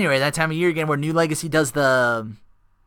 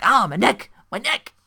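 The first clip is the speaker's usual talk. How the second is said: mock pained old man; 8 semitones higher than usual. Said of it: "and Vince is like".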